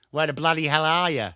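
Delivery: attempted Aussie advert catchphrase, lightly put on; bad Australian accent. Streamer quoting tourism advert to chat, bad Australian accent. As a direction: have a poor go at an Australian accent. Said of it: "That is the worst Australian accent".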